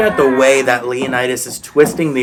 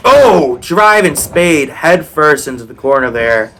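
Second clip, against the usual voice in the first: excited. Real, not acted. Live wrestling play-by-play.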